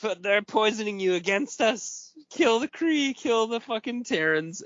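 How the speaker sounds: high sly scheming whisper; villain voice. Retold or imitated. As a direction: hiss it like a schemer. Voicing scheming Wormtongue whispering.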